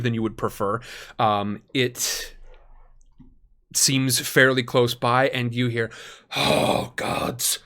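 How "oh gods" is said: panicked cry. Acted. Unseen person crying out.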